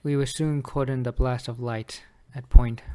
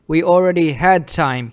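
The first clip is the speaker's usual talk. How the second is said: louder, firm imitation of an opponent arguing; insistent quote; 2 semitones higher, 5 dB louder than usual. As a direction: throw his argument out forcefully. Retelling Drake's argument against him.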